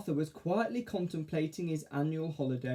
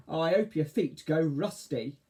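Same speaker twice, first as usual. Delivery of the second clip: shout; 2 semitones higher, 4 dB louder than usual. Acted. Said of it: "shouted Arthur".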